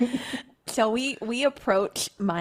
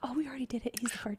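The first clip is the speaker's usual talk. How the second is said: whispering; 5 semitones higher, 10 dB quieter, much faster than usual. Real, not acted. Players whisper a correction.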